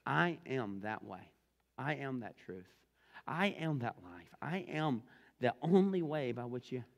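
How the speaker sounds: slow, measured, plain declaration; matter-of-fact. Retold or imitated. Jesus answering Thomas, very matter-of-fact. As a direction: state each one evenly and deliberately. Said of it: "he says very matter-of-factly".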